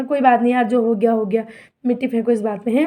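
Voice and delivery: soothing pretend apology. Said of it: "ऐसा बोलना चाहिए था".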